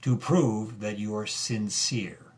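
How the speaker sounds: mock official tone. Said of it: "what they said to me".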